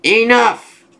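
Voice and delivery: high-pitched, drawn cry of command; mock shout. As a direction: cut in with a hammed-up shout. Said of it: "as the brain shouts".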